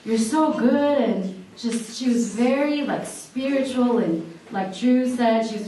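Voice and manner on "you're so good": put-on childlike awe. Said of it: "So I'm like".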